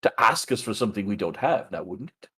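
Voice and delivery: lightly put-on dragonborn voice. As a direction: talk like a dragonborn, a touch. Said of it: "I'm just going into my Dragonborn voice".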